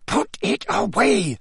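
high, slow, snarled order; snarling Snape. A narrator's reading. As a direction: snarl the command, drawing it out. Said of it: "snarled Snape".

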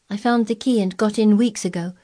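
put-on blunt little girl, matter-of-fact; Mary's voice. A narrator's reading. Mary telling Colin what Ben said, lightly voiced blunt girl.

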